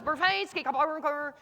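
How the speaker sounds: garbled, mumbled gibberish; unintelligible announcer. Retold or imitated. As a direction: imitate a voice you can't make out. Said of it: "the twelve-year-old goes".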